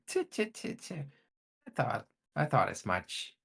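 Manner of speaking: tiny high tutting voice; a small creature clicking its tongue, then smug; pixie. Acted. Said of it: "a tiny voice".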